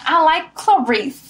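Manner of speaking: New York character. Acted.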